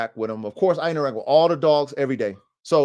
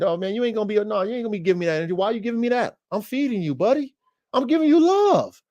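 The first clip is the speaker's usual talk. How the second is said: talking to dog; 6 semitones higher, faster than usual. Retold or imitated. Voicing talk to the dog.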